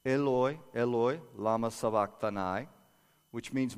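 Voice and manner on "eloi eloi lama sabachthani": crying out. Retold or imitated. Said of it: "cried out in a loud voice".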